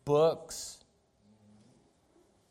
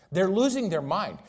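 louder, higher repeat; 6 semitones higher, 5 dB louder than usual. Acted. Preacher repeats line, soft then loud.

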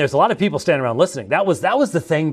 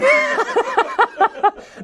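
high burst of laughter; 4 dB louder than usual. Real, not acted. Laughing at own story.

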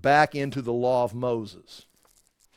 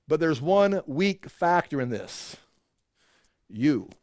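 ordinary talk, nothing marked

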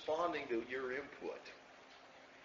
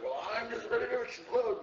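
higher, louder fed-up voice, a bit hammed-up; mock exasperation; 8 semitones higher, 4 dB louder than usual. An angry churchgoer mock-venting before the congregation, exasperated. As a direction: play someone about to boil over. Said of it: "if you feel like".

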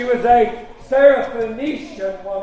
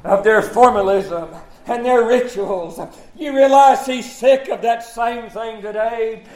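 driving pulpit sermon delivery; fervent preaching. Real, not acted. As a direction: preach it hard to the congregation, punching key words. Preaches to a congregation.

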